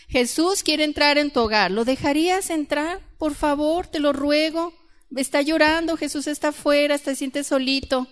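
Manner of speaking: imitation of a tearful plea; mock pleading. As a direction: plead pityingly, poking fun at the sentimentality. Mocking a tearful appeal from an image.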